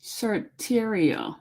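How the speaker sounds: slow "Certerio" with a clear T; sounding out the T. Shown as a demonstration. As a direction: say "Certerio" slowly, pronouncing the T. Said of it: "So you don't say the T".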